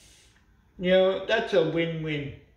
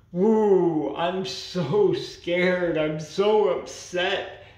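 sarcastic mock fear; much slower than usual. Sarcastic reply to mockers.

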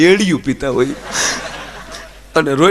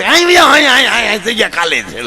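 bossy seat-hogger; 5 semitones higher than usual. Retold or imitated. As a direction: shoo the poor guy off the bus seat. Stranger shooing passenger off seat.

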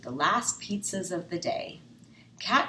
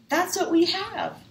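very high, loud triumphant whoop; cheering; 14 semitones higher, 7 dB louder than usual. Acted. Narrator cheering the solved count, very high and loud. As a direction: celebrate the answer.

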